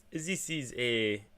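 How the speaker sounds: slow, uncertain mock German accent; attempted German accent. Streamer retrying the locals' voice, attempted German accent. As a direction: try a drawn-out German accent. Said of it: "how do you do a German accent".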